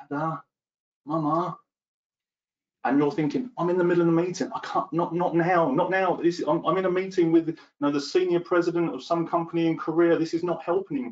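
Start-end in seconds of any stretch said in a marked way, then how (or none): 0.1-1.6 put-on tiny, high toddler voice calling out. Describing a child interrupting a work meeting: tiny child's voice. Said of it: "there's this tiny voice".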